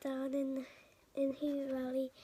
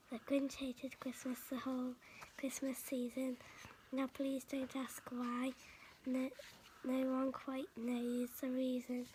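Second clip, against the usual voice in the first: soft, half-whispered bedtime reading; whispered Grinch story narration; hushed storytelling; 4 dB quieter than usual. Acted. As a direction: read it softly like a secret to a child.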